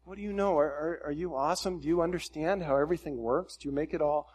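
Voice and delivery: a touch of challenge, questions pitched a little up; lightly voiced God. Preacher voicing God's answer to Job, mildly challenging. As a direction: put mild, humbling questions to someone. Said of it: "God responds to him just basically saying".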